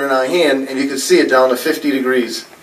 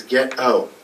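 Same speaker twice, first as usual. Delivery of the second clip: a faint ghostly "Get out", much softer; faint whisper-like voice; 4 semitones lower, 6 dB quieter than usual. Retold or imitated. Ghost on the tape telling Arlene to leave, faint. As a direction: breathe it out faintly like a voice on a recording. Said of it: "A little faint voice that says".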